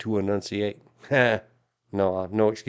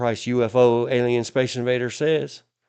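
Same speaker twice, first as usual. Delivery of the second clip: ordinary delivery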